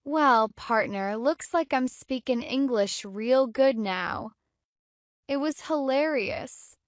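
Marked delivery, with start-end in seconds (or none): 0.0-4.3 playful cowboy accent; lightly mimicked American cowboy accent. Shown as a demonstration. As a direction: put on a funny cowboy voice and accent. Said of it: "Cowboy accent".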